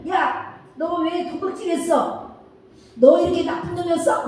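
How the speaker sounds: high-pitched mock scolding of a little brother. Older brother scolding the youngest for stealing, mock angry.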